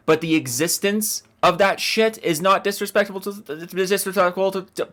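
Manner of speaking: stumbling over the words; tongue-tied. Real, not acted. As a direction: trip over your own tongue. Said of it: "oh my God, I can't talk".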